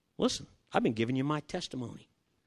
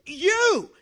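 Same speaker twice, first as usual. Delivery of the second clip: high, loud "You!"; the dealer caught off guard; surprised exclamation; 7 dB louder than usual. Retold or imitated. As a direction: yelp it like a startled salesman.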